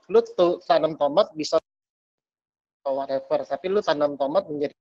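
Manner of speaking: choppy audio dropping out; breaking up space radio. Real, not acted. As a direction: signal cutting in and out. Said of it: "Putus-putus".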